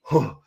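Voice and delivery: breathy deflated sigh; weary exhale. Shown as a demonstration. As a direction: exhale as if giving up. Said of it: "the exhale game".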